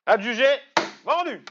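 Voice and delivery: auctioneer. Pretend. Mock auction hammer falls.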